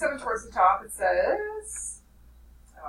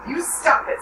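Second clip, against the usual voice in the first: higher and louder, pushed up sharp; shrill; 6 semitones higher, 7 dB louder, slower than usual. Acted. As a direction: snap it out high and sharp. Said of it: "said Piggy shrilly".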